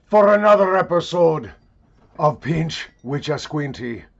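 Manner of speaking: big mock-grand proclamation; hammed-up show opener. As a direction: holler it like a bombastic show intro. Mock-grand show opening, hollered.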